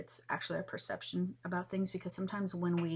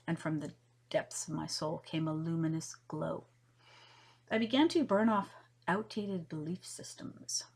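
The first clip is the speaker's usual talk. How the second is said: measured poetry recital, unhurried in places; earnest spoken-word poem reading. Acted. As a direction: read the verse like a heartfelt recitation. Reads her poem aloud.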